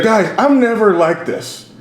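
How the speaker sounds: high, drawn-out mock drunk protest; trashed club owner. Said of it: "he's so trash".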